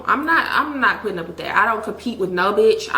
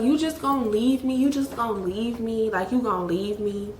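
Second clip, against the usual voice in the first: mock whiny plea, trailing off softer; fake crying boyfriend; 4 dB quieter than usual. Boyfriend fake-crying at her on Christmas, mock whimper. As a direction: imitate his fake tearless whimper. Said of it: "crying noises".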